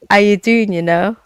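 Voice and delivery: light mimicry of a Jamaican singer; Jamaican accent. Guest shows the host how the song goes, imitated Jamaican accent. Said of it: "it's in a Jamaican accent".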